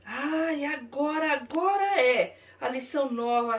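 usual speaking voice

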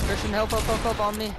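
loud panicked calls for help; shouting for help. Real, not acted. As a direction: yell for help, high and loud. Calling teammate for help in fight.

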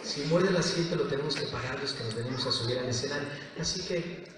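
soft, measured character voice; Yukito. Shown as a demonstration. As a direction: keep it hushed and gentle. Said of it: "habla más o menos así".

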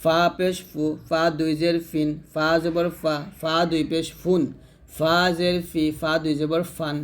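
light, thin F in ফা. Shown as a demonstration. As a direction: say ফা with a thin, unweighted F. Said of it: "ফাটা আমরা পাতলা উচ্চারণ করব". (ফা পাতলা উচ্চারণে)

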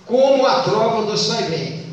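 slow, measured verse scansion; deliberate recitation for counting; counting poetic syllables. Shown as a demonstration. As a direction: draw the lines out so each syllable counts. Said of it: "Se conta a sílaba".

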